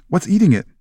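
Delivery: high-pitched acted fright; terrified. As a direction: demand it in storybook alarm. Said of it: "Parvati demanded in a terrified voice".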